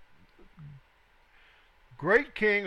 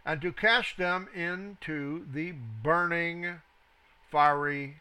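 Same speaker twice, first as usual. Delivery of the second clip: scripture reading. Acted. Teacher reading the king's furnace command to students, deliberate scripture reading. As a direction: read it out deliberately, stressing phrase by phrase.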